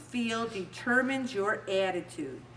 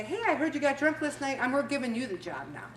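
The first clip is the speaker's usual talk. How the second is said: imagined boss; 3 dB quieter, faster than usual. Pretend. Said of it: "boss is gonna say".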